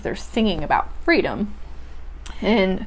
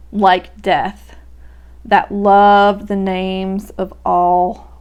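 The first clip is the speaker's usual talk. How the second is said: slow poem reading; slower than usual. Acted. Student reading the poem's closing lines aloud, very slow recital. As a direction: draw each line out, very slow and deliberate.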